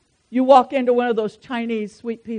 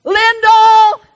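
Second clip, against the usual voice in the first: higher and louder, a mock exasperated yell of the name; exasperated shout; 10 semitones higher, 9 dB louder than usual. Calling for Lyndall amid the morning chaos, loud and exasperated. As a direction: throw the name out in comic exasperation.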